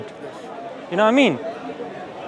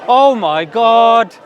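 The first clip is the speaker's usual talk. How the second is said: panicked exclamation; 3 semitones higher, 5 dB louder, much slower than usual. Retold or imitated. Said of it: "harshest of atheists will say".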